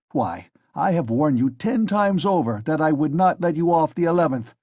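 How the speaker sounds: police officer losing his temper; angry tirade. Acted. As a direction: berate her as if barely holding back. Enraged assistant berates the lady.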